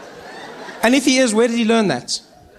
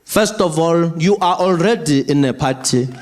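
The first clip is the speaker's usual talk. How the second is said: stern slow dad; slower than usual. Retold or imitated. Father scolding daughter.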